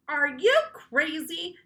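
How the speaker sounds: slow loud alarmed question; shouted. A narrator's reading. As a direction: shout at her to stop. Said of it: "Andrea shouted".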